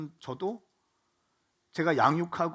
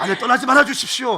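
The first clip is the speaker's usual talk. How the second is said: raised, loud preacher's cry of comfort; fervent preaching; 7 semitones higher, 11 dB louder than usual. Acted. Pastor to congregation in slump, loud fervent preaching. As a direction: preach it out to the whole hall, fired up.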